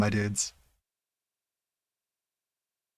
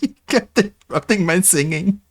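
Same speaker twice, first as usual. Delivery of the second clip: mock echo; 8 semitones higher than usual.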